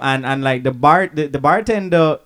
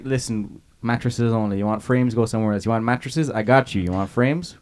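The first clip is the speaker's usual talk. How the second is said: gruff salesman; 5 semitones lower, 4 dB quieter than usual. Retold or imitated. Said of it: "He's like".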